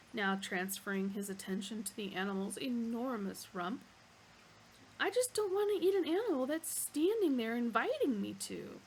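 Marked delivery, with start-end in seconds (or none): 5.0-8.8 indignant Arthur. Acted. Arthur protests.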